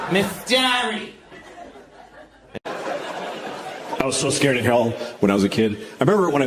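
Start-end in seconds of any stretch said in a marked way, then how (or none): 0.1-1.1 high-pitched mock teacher saying "Doherty" like "Dearie"; high Boston-mangled "Miss Doherty"; mispronounced name. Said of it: "She mispronounced her own name".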